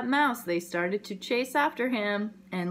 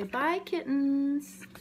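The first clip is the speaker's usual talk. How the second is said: slow, a little higher goodbye; puppy farewell; 5 semitones higher, much slower than usual. Acted. A hint of puppy saying bye to kittens. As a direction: draw out a sweet goodbye. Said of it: "And say".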